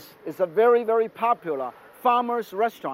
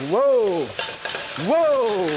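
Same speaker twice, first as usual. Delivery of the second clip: a loud, startled cry at the flames; real surprise as the wok flares up; startled whoa; 4 semitones higher, 3 dB louder than usual. Real, not acted. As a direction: jump back from a sudden flare.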